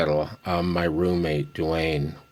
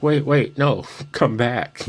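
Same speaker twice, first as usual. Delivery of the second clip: mock pleading; 5 semitones higher, 4 dB louder than usual. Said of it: "And it's like".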